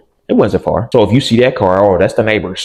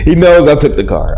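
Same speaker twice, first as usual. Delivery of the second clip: incredulous; 6 semitones higher, 5 dB louder than usual. Retold or imitated. Incredulous realization.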